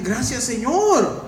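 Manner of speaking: slow, high, sincere thanks to the Lord. Acted. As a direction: draw out the thanks gratefully. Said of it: "no se tornaron más que decir".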